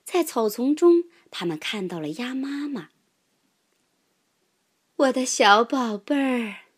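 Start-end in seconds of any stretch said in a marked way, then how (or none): 5.0-6.7 calling out. A narrator's reading. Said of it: "鸭妈妈呼唤着".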